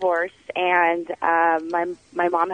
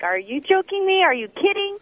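high-pitched mock incredulity; retold disbelief; 11 semitones higher than usual. Mom to server who wants facials, retold in high disbelief. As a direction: imitate a stunned mom, pitch jumping way up.

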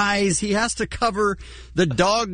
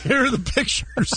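bored newsreader; 4 semitones higher than usual. Retold or imitated. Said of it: "That's how he sets up the clip".

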